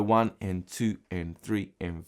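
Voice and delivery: steady slow count for the student; slow counted beats. Shown as a demonstration. Guitar teacher counting a strum slowly for students. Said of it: "could be like this".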